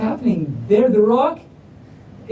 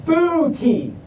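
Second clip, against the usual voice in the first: clown's punchline; slower than usual. Acted. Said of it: "And Clown says".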